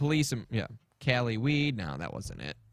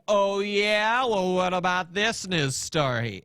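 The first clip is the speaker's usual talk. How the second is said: snarky; 4 semitones higher, slower than usual. Retold or imitated. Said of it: "People that are snarky on Twitter".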